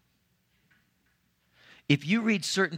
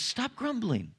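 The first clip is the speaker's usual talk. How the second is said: "Stop grumbling" pitched much higher, pressed harder; firm rebuke; 9 semitones higher, slower than usual. Retold or imitated. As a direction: rebuke the whiners sharply, raising the pitch. Jesus rebukes grumblers again.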